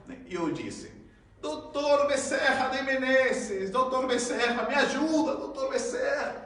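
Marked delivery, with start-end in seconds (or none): 1.4-6.5 high, loud, slow plea; pleading prayer. Retold or imitated. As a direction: beg the spirit doctor for rescue. Pleading to spirit while drowning.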